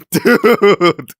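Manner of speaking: high, loud amused protest; loud exclamation. Real, not acted. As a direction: shout it in disbelief. Reader reacts to listener.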